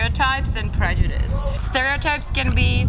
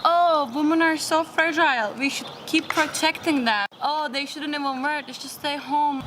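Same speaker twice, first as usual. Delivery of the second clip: mock patronizing tone, a bit higher; condescending sexist voice; 5 semitones higher than usual. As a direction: lightly mimic a patronizing chauvinist. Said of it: "For example".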